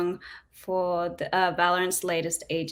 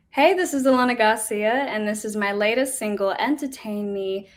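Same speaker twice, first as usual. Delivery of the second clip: radio voice; 2 semitones higher than usual. Pretend. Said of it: "my radio voice on?".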